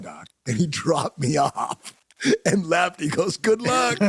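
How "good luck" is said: much higher, louder sing-song good luck; high teasing send-off; mock farewell. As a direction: tease him on the way out. Friend leaves him at the club.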